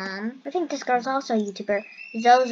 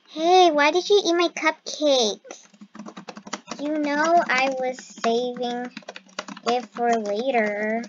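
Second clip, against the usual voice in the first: mock whiny accuser; slower than usual. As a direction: play the wronged cupcake owner, drawn out. Troll voicing accusation while typing.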